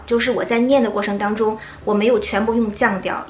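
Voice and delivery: normal talking voice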